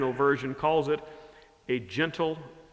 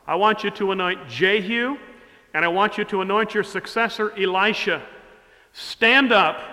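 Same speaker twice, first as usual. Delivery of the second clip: higher and louder commanding God; God telling Elijah to stand up, raised and commanding; voicing God; 3 semitones higher, 3 dB louder than usual. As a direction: speak as God urging the prophet on. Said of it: "the second part of God's whisper to Elijah".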